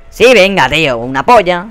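sarcastic anger. Real, not acted. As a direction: snap back at the game. Sarcastic anger after being killed. (réplica sarcástica y fuerte)

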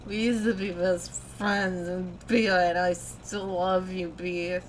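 put-on slow, sloppy drunk gush; garbled tipsy declaration; drunken slurring. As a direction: slur it together affectionately like a drunk. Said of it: "I didn't get a word of that".

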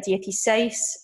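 "dieciséis" with the stress on "séis"; stress on final syllable. Shown as a demonstration. Teacher showing where the accent falls, final syllable stressed. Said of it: "where we're actually stressing the word".

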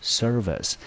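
"service" as SER-vəs, high start falling away; first-syllable stress. Shown as a demonstration. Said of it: "重音节第一个音节落在第一个". (service 重音放第一音节，后面轻读)

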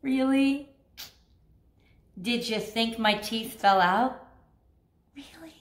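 sly crocodile, last word whispered; taunting crocodile. Retold or imitated. Crocodile mocking the cocky owners, sly and teasing. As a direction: tease as the crocodile, whisper the end.

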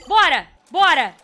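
loud high startled yells; panicked shouting. Real, not acted. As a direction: shout out in sudden fright. Monster vanished, urging on.

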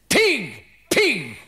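high, loud yell of pig; shouted insult. Retold or imitated. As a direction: hurl pig at the driver as she passes. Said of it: "she shouted at me".

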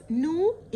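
"know" begun straight on the N; silent K. Shown as a demonstration. Teacher teaching the verb for students, demo of "know" with silent K. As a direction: say "know" with no K sound at the start. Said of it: "ال K silent".

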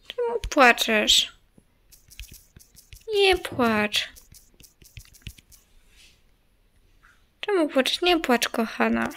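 soft, hushed comforting voice; gentle consoling. Pretend. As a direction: quietly soothe someone who is crying. Consoling a crying game character. (cicho, czule pocieszając)

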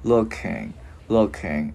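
"looking" with the final NG left humming; ringing NG ending. Shown as a demonstration. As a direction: let the NG at the end of "looking" resonate. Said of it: "mình ngân cái chữ ngờ ra". ("looking", ngân âm ngờ ở cuối)

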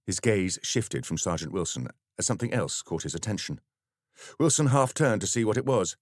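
plain reading voice

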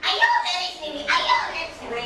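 put-on high, anxious cry for the lost child; a frantic mother crying out where her girl is; worried mother calling. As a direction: call out for her child in alarm. Mother searching for missing child.

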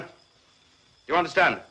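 insistent demand. Acted. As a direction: press hard for an answer. Officer repeats demand after no answer.

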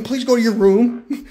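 slow, pleading mock beg; drawn-out imitation of a plea; begging plea. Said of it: "please, begging".

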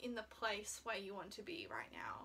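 breathy hushed question; whisper. Real, not acted. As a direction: drop to a whisper for the big question. Fluisterend vragen aan toekomstige zelf.

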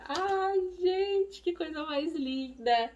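high, bright gush over a tiny outfit; delighted squeal. Real, not acted. Mom unboxing baby clothes for followers, delighted high squeal.

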